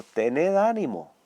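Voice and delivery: slow, calm reassurance; lightly voiced Jesus calming his friends; reassuring Lord. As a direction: comfort frightened disciples, unhurried. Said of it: "habló con ellos y les dijo".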